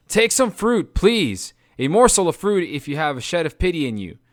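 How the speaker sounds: high, pleading; begging. Acted. Eurylochus to Odysseus, begging high. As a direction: beg for a morsel. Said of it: "begged Eurylochus".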